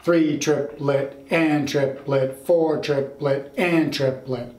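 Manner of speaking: slow, deliberate triplet count; slowly counted. Shown as a demonstration. Teacher slowly recounting four groups of three, slow. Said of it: "we're counting four groups of three".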